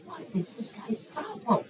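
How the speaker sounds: hammed-up sleepless complaint, rising to an outburst; mock exasperation. Preacher imagines being woken repeatedly, mock exasperated. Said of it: "I would have been like".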